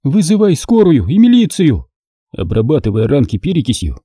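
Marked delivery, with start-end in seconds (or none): 0.0-1.9 higher, brisk order; commanding. Acted. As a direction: take charge. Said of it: "распорядилась она".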